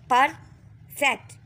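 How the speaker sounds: परफेक्ट said slowly, syllables drawn apart; slow model word. Shown as a demonstration. Teacher to pupils, slow careful syllables. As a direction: stretch परफेक्ट out in two parts. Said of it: "इसके भी टू division हो गई हैं".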